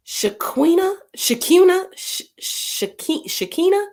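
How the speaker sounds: Shaquina, Shakuna, Shakina tried high and questioning; high, uncertain attempts at Shakina; unsure pronunciation. Real, not acted. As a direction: feel your way through the name. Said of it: "Again, I need pronunciations".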